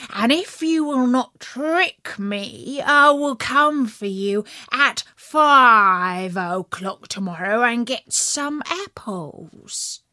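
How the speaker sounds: slow, sly coaxing wolf. Acted. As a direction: tempt the pig slyly. Wolf tempts the pig.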